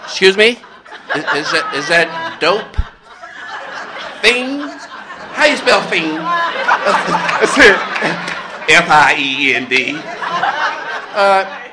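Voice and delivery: loud, high, laughing clerk baffled by the email; mock puzzled clerk. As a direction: play the stunned clerk, laughing.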